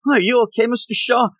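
high-pitched put-on concern; imitated worried question, pitched high; mock concern. Acting out fussing over Shaw.

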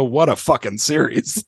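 put-on light New York accent on the quote. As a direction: lean in with a hint of New York. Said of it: "a somewhat thick New York accent just go".

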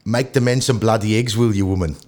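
rough attempt at a New Zealand accent. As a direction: put on a light Kiwi accent. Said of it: "New Zealand".

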